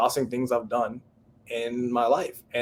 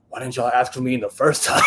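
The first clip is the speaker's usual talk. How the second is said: laughing; 3 dB louder than usual. Real, not acted. Laughing at late casting call.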